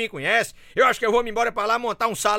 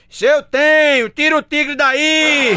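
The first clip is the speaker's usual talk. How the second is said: slow, loud, higher shout from the back of the crowd; 4 semitones higher, 4 dB louder, much slower than usual. Acted. Man at the back shouts up to the ringmaster, slow and loud. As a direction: call out slowly and loudly across the tent. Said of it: "o rapaz grita lá do fundo".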